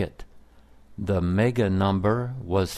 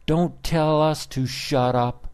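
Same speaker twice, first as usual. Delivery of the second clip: angry yell; 7 semitones higher than usual. A narrator's reading. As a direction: throw it back at the cook. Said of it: "they yelled".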